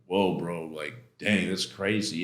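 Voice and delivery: low, hushed disbelief; in shock. Retold or imitated. Buddies hearing the news, quietly shocked. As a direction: drop your voice, stunned. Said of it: "they were in shock".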